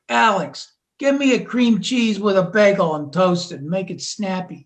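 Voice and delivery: a hint of a Staten Island accent; lightly voiced Staten Island customer ordering a bagel. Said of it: "they talk like this".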